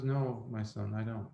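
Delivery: a hint of a humble old man; old boatman. Old boatman answers the educated passenger, lightly voiced humble old man.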